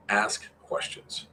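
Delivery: whisper. Acted. Repeating rule to players.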